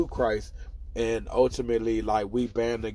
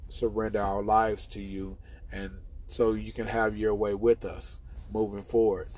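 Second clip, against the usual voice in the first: prayer. Real, not acted. Leads a quick prayer.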